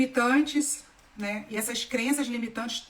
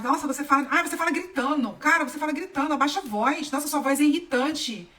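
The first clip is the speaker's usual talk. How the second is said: retold nagging, raised pitch; mock complaining; 4 semitones higher, 3 dB louder than usual. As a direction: imitate an irritated scold, higher pitched. Acting out complaints about her voice.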